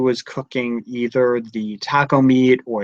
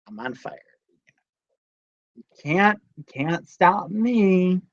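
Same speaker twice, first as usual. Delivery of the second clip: nonchalant; 4 semitones higher, 3 dB quieter than usual. Retold or imitated. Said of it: "said it so nonchalantly".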